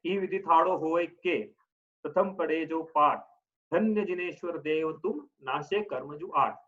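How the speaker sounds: slow, measured chanting of the doha verse; slow doha recitation. Shown as a demonstration. Teacher reciting a doha to students, slow and measured. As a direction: recite each quarter slowly with pauses. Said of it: "जैसे".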